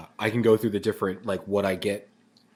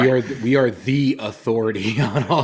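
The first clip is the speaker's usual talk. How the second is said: laughing; 5 dB louder than usual. Real, not acted. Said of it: "I can't keep a straight face".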